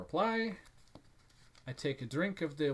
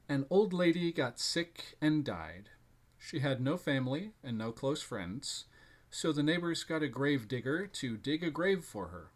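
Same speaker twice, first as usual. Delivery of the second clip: scary story narration. A narrator's reading. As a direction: read it like a campfire tale. Reads a scary story aloud.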